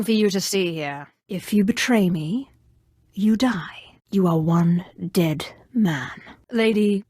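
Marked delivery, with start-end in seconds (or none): 3.1-7.0 whispering. Acted. Villain threat line.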